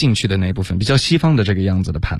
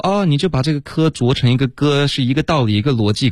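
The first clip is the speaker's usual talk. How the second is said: quoted teachers; 6 semitones higher than usual. Retold or imitated. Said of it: "很多的老师会说".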